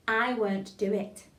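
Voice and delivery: slow, careful diction; tongue-twister demo. Shown as a demonstration. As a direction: say it slowly for a class to copy. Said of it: "Your turn".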